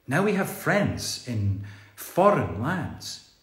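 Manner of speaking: measured verse reading with pauses between lines; poem reading. Acted. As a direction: read the rhyme aloud, line by line. Reads out the group's rhyming poem.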